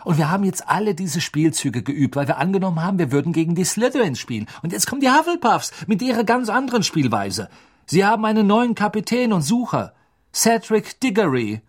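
fast, worried team captain; anxious captain. A narrator's reading. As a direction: rush it out, fretting.

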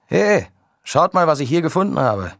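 high, loud excited call, slowed. A narrator's reading. Photographer calling the team over to his find, excited and loud. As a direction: call the others over with discovery. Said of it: "rief Leon in diesem Moment".

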